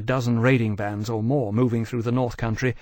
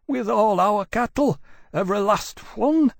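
higher, shaky-voiced complaint; trembling voice; 9 semitones higher than usual. A narrator's reading. Old villager answering the officer, trembling. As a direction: let the voice quiver with fear. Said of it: "his voice still trembling".

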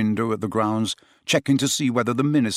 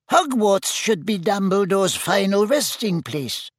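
squeaky Flitwick; 9 semitones higher than usual. A narrator's reading. Flitwick voiced.

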